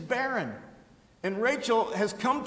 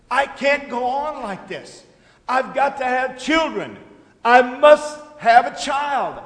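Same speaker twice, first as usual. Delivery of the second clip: desperate begging; 3 semitones higher, 5 dB louder than usual. Acted. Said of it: "in a state of desperation".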